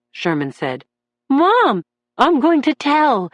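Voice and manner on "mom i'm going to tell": called out high and loud; emotional call. A narrator's reading. Son calling to his mother from the witness stand, loud. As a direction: call across the room, voice full of emotion. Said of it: "Brinkley called out, his voice warbling with emotion".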